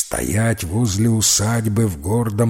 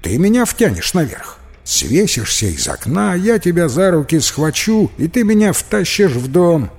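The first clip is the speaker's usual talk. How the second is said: put-on lightly raised young boy, coaxing; a small boy talking his friend into it; boy's voice; 7 semitones higher, 4 dB louder than usual. Мальчик уговаривает друга лезть в окно, высоким мальчишеским голосом.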